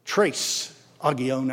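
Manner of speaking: Trace Agion drawled slow and Texan, the Trace like trace; Texas drawl. Shown as a demonstration. Preacher showing the congregation, Texas drawl. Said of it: "the way we would say it, with the Texas drawl".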